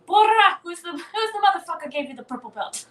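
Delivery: high, loud mock coach yell; imitated sideline yelling. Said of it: "Seneca yelling at me from the sideline".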